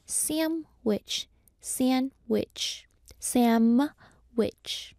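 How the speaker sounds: "sandwich" as SAM-wich, split in two for repeating; demonstrating "samwich". Shown as a demonstration. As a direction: model "sandwich" with an m, syllable by syllable. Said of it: "try it with me right now".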